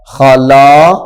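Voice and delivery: wrong reading demo. Shown as a demonstration. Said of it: "تو یہ غلط ہے۔".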